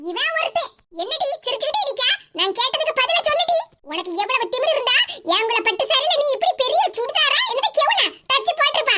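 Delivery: lightly voiced scolding mother-in-law; a hint of a sharp, mocking old woman. Mother-in-law taunting her daughter-in-law over the dress, mild scolding.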